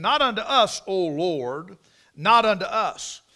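sermon emphasis on repeated words; emphatic scripture quote. Real, not acted. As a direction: proclaim it, slowing on the last line. Preacher quoting psalm with force.

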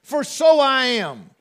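slow, weighty repeat of Christ; quoting Christ, emphatic. Acted. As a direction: lean on each word like scripture. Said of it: "Christ's words".

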